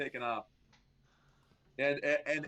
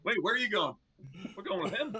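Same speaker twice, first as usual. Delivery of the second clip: higher and louder, breaking into laughter; laughing guard; 8 semitones higher, 4 dB louder than usual. Acted. Guard laughing as he follows the deserters, higher and louder. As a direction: call after them while laughing.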